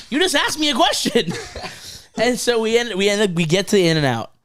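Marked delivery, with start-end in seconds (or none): 0.1-1.3 mock exasperation. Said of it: "I'm like".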